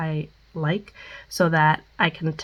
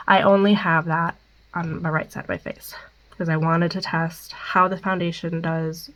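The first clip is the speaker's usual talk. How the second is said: blocked nose. Real, not acted. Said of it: "Sorry if I sound stuffed up".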